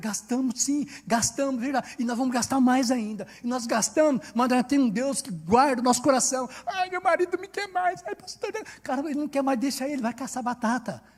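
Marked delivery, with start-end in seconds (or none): 6.7-8.5 mock whimpering, high tearful crying whine. Preacher imitates a woman complaining to the pastor about her husband, mock-crying complaint. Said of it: "um bando de franguinhas chorando".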